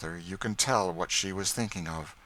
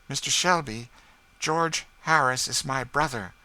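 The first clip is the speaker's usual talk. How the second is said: higher, louder firm declaration; proud; 7 semitones higher, 6 dB louder than usual. A narrator's reading. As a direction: declare it with dignity. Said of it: "lifting her head proudly".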